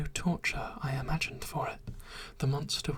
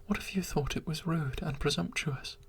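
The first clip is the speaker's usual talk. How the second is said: pleading creature. Acted. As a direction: beg her to understand, breathless with longing. Creature proposing, begging desperately.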